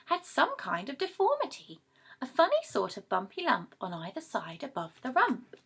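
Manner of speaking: lively storybook reading of rhyming verse; reading to children. A narrator's reading. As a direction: read it like a bedtime rhyme for kids. Reads a poem to children.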